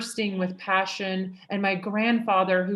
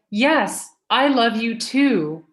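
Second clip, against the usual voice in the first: louder, cheerful mock yell back to the son; mock scream; 2 semitones higher, 7 dB louder, slower than usual. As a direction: call it out loud like answering a happy child. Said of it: "And I scream".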